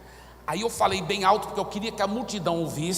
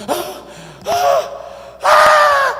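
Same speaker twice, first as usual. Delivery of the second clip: loud, high gasping shrieks, one by one; acted cries of a terrified demon; imitated terror screams; 14 dB louder, much slower than usual. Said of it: "mas em terror". (gritos de pavor encenados)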